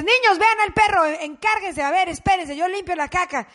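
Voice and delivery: mock bossy mother rallying her kids; calling to the kids. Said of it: "tú le dices".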